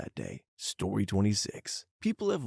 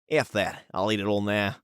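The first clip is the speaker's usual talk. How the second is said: emphatic put-on Aussie voice; amateur Australian impression, punched a little; attempted Australian accent; 4 dB louder than usual. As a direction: try a blunt Aussie accent. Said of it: "not sure how good that accent was".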